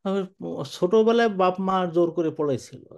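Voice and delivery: a hint of an elderly man admitting he can't read Arabic; old man's reply. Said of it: "বুড়ো মানুষ".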